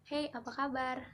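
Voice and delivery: light Jakarta way of greeting; breezy western Indonesian hey, apa kabar; Jakarta accent. Shown as a demonstration. A student demos a Jakarta greeting, light Jakarta accent. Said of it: "orang Indonesia bagian barat ... Jakarta".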